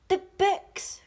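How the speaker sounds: high, loud alarmed cry; cried out. A narrator's reading. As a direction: cry out in shock at the loss. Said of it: "cried out Peter".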